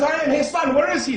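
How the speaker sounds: loud, high, urgent call; excited acted cry. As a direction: cry out as the overexcited father. Excited father cries out in story.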